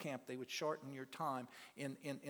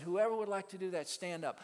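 loud, fast call to stand; rally the room to their feet; calling them up; 3 semitones higher, 5 dB louder than usual. Retold or imitated. Preacher calling inmates to stand, loud and quick.

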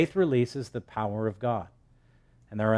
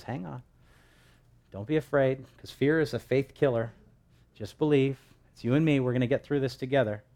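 reassuring Lord. Retold or imitated. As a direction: comfort someone close in a hushed voice. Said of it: "the Lord just grabs hold of you and says".

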